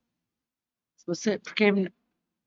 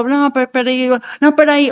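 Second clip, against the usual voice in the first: louder rising "não, peraí" to halt someone; firm stop; 3 semitones higher, 4 dB louder than usual. Shown as a demonstration. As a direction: hold up a hand and cut them off. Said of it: "Pode ser só".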